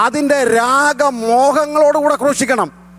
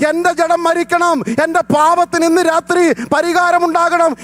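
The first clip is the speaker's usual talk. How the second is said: raised fervent preaching voice; preaching at full force; 5 semitones higher than usual. Acted. Pastor preaching on sacrifice to his congregation, full force. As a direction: drive the message home to the church.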